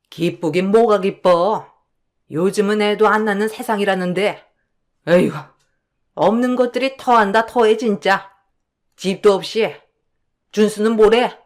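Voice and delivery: a hint of a contemptuous older woman grumbling; scornful mother-in-law. Mother-in-law sneering at her daughter-in-law's happy news.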